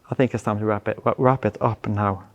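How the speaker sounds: hoarse, worn-out voice going quiet; losing voice. Real, not acted. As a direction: voice nearly gone after a long day. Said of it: "before I'm losing my voice".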